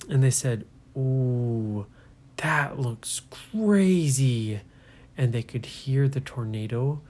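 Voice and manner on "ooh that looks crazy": slow hushed whisper of awe; awed whisper. Acted. Kids awed by tornado.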